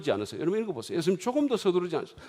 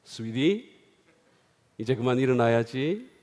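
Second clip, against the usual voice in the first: gentle wake-up; 6 semitones lower than usual. Shown as a demonstration. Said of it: "제가 어떻게 깨우는지 아세요?".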